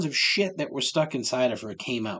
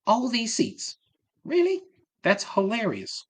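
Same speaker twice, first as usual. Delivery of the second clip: imitating the ad; 11 semitones higher than usual. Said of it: "those Jamie Foxx ads".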